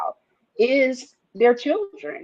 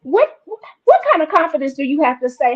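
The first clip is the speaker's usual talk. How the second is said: much higher, louder and fast, astonished; amazed disbelief; 5 semitones higher, 3 dB louder, faster than usual. Retold or imitated. Marvelling at Coco asking Venus, high astonished rush. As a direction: gasp it out in awe. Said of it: "I'm just like".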